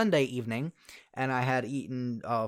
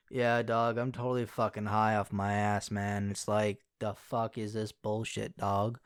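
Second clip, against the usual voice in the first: lazy stoner drawl, a bit lower and softer; 4 semitones lower, 3 dB quieter, slower than usual. Retold or imitated. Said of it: "And I'm just talking like that".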